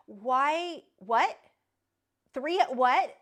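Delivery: can't believe the number; real shock at the quote, loud; stunned disbelief. Real, not acted. Stunned by the new price.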